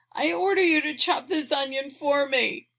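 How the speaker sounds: put-on bossy child. A narrator's reading. Tearful child ordering robot about.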